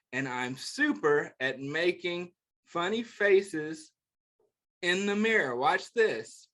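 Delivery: gentle picture book read-aloud; reading to children. Acted. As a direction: read it like a bedtime book for kids.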